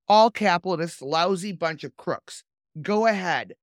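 condemned man reading. Acted. Condemned man cursing the chaplain, a hint of defiance. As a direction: read the condemned man's words with light defiance, no accent. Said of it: "I'm not gonna do an Italian accent".

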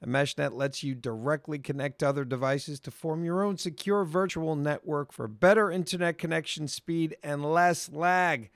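upbeat, measured pitch to listeners; sponsor ad read. Acted. Host pitching a VPN to gamers, scripted ad read. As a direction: sell it smoothly to the gamers.

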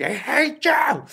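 put-on high, sweet baby talk to a pet; cooing at a pet. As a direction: coo it like talking to a raccoon. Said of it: "el vato le dice así".

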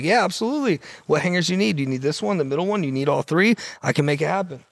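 retold eager sales pitch, starting high; eager agreement. Hangar tenant to Maxim scouts, suddenly eager to please. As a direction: jump at the chance, then rattle off offers.

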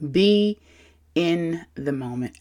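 soft and calm. Shown as a demonstration. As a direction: say it gently. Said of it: "let me calm my voice for you even more".

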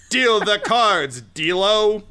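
smug rival voice. Acted. GM voices Rick.

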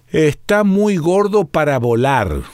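relentless and pressing. A narrator's reading. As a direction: press on without mercy. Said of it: "continuó Evalino implacable".

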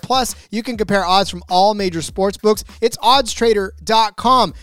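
upbeat, pushy sponsor read. Acted. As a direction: sell it like a radio spot. Host reads a sponsor ad.

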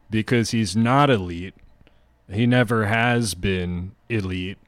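slow, deliberate hot-take delivery; a mild pundit put-on in his own voice; lightly voiced TV contrarian; Skip Bayless impression. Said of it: "I apologize for not doing a Skip".

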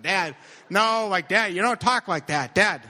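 retold exasperated objection; mortified protest. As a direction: cut dad off, embarrassed, acting it out. Retold protest to embarrassing dad.

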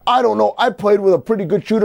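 mock the old man's dismissive shrug; mocking Oscar Robertson. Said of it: "mocking Oscar's words again".

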